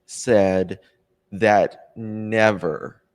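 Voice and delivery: hiccuping mid-sentence; hiccups. Real, not acted. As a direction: talk through a hiccup. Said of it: "got the hiccups".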